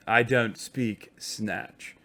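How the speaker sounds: put-on posh Oxford English; mock-snooty Oxford English accent. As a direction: play at Oxford College English. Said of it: "I only speak Oxford College".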